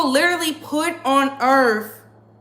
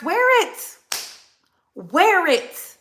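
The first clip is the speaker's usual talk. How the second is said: emphatic urging; 3 semitones higher, much slower than usual. Real, not acted. Urging people to flaunt jewels.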